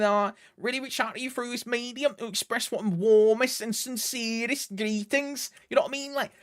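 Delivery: hammed-up Scouser with lots of like and you know; Scouse accent. Rereading the greeting in a Scouse accent for the chat. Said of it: "say it again in your best Scouse accent".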